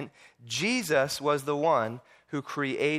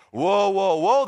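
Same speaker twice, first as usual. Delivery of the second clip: raised, high protest; mock alarm, pitched up; indignant objection; 5 semitones higher, 6 dB louder, slower than usual. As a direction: cut in to stop him, acting shocked. Leaders object to Jesus.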